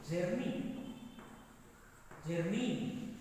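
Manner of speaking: JOURNEY said with a Telugu accent, r sounded; drawn-out Telugu-accented JOURNEY. Shown as a demonstration. Teacher showing how Telugu speakers say it, Telugu accent. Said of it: "You know, in Telugu".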